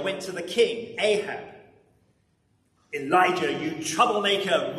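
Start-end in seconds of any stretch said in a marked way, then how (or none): 2.9-4.8 lightly acted royal roar; mild roar. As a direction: hurl the name at him like an angry king. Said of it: "roared the king".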